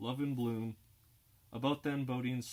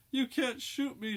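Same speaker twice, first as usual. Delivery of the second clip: high, loud, slowed scream; 8 dB louder than usual. Acted. Girl facing a pistol, screaming at the gunman. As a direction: defy the gun in terror. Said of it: "she screams".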